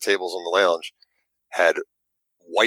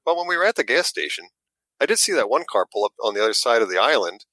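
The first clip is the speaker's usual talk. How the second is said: wife's alarmed recollection; 8 semitones higher than usual. Retold or imitated. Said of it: "my wife's like".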